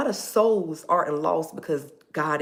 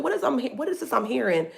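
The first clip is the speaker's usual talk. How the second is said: imitating the bishop; 4 semitones higher than usual. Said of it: "He said".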